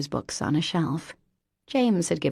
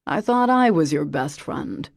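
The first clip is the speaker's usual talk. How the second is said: mock hurt; 4 dB louder than usual. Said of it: "with an exaggerated sigh".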